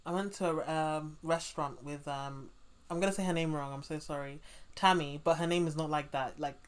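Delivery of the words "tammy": Tammy said the British way, with a crisp aspirated T and open A; British pronunciation. Shown as a demonstration. Interviewer admits saying her friend's name the British way. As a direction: pronounce Tammy the way a Brit would. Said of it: "I'm saying it in a British way".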